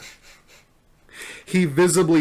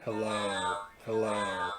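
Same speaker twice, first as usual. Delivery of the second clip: hello run through a megaphone voice changer; 4 semitones lower, 9 dB quieter than usual. Shown as a demonstration. Testing a megaphone voice changer, processed hello. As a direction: test the altered voice into the mic. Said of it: "Put a voice changer on here".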